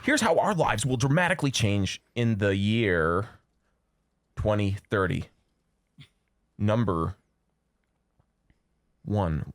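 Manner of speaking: a hint of a hyped video voiceover; clickbait video narrator. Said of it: "You really should write for BuzzFeed".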